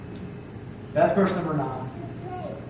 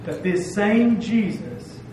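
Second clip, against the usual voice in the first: "same" in "this same Jesus" stretched slowly and stressed; slow, weighty stress on "same"; emphasis on same; slower than usual. Shown as a demonstration. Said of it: "That's why the emphasis is made here".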